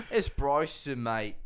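put-on Aussie twang; Australian accent. Host switches over to introduce himself, Australian accent. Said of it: "I wanna switch over to Australian".

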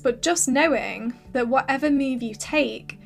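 hoarse, losing her voice; raspy whisper. Real, not acted. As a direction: voice going raspy and worn. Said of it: "Sorry, I'm losing my voice".

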